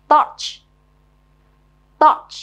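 touch said short and loud; model pronunciation. Shown as a demonstration. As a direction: punch out touch for pupils to copy. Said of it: "nghe cô đọc rồi mình nhớ luôn cách phát âm".

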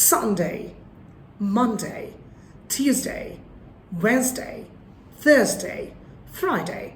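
each weekday front-stressed, "ডে" gliding as day; stress on first syllable. Shown as a demonstration. Teacher modelling weekdays one by one, first syllable stressed. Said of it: "নামের প্রথমে stress দিতে হবে".

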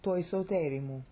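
"Toi soterimu" as a separate second phrase; phrase after pause. Shown as a demonstration. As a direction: begin cleanly on "Toi" after the break.

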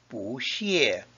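"不" rises, then "谢" falls; second-tone bu. Shown as a demonstration. Teacher showing bu before a fourth tone, rising "不". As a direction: climb on "不", drop on "谢". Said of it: "changes to a second tone".

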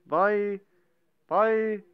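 high, loud urging; excited cheer. Real, not acted. Gamer cheering the fight, excited and loud.

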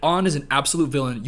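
a light hint of cool-kid phrasing on "An is an absolute villain". Shown as a demonstration. Redoing the line for viewers, lightly cool-kid style. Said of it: "what's the way that cool kids do it?".

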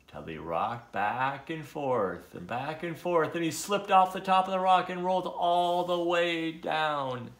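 swaying telling that climbs in pitch; dramatic storybook reading; animated story narration. A narrator's reading. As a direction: draw out the rocking, then lift into the tumble.

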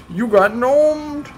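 slow very high gloating taunt. Acted. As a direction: gloat slowly, pitch up further. Taunting victims again.

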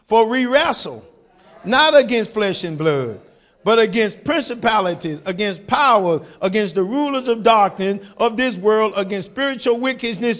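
a preacher shouting verse twelve to the congregation; shouted scripture. Real, not acted. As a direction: thunder the verse at the church.

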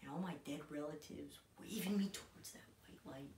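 intense, halting monologue with long pauses; dramatic monologue. Acted. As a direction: play it raw and hesitant, grieving son. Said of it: "bringing you another monologue".

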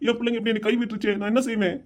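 acted weepy father's complaint; mildly tearful helplessness; tearful lament. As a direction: lament being let down, close to tears. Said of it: "முத அழுகை நிப்பாட்டு".

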